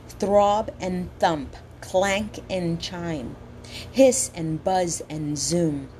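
slow, savoring each word; poem reading. Acted. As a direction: relish the sounds of every word. Reads quoted poem slowly.

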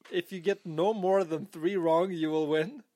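deliberate emphasis on "three wrong" and "win"; emphatic clarification. Real, not acted. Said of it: "make that more clear for you".

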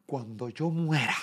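high, loud, slow martyred threat; hammed-up dramatic mother; dramatic mom. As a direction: play the wounded mother. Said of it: "mi mamá bien dramática".

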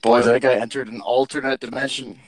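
warped, echoey broken audio; inside a fishbowl. Real, not acted. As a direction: voice from another dimension. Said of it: "That sounded like he was from the Twilight Zone".

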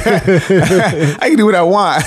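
laughing mock hypocrite. Mocking hypocritical parent.

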